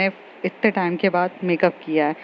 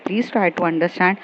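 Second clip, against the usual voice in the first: slow pleading; 2 semitones lower, much slower than usual. Retold or imitated. Pleading with younger sister.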